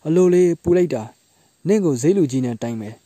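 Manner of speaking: high, loud yelp of pain turning into a threat; bumped market woman shrieks and scolds; indignant outcry. Acted. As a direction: cry out that it hurts, then threaten her. Woman bumped by porter, complains.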